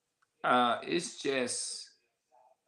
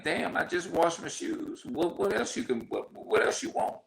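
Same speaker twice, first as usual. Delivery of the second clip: exasperated mock whisper; 10 semitones higher than usual. Exasperated at never-ending complaints.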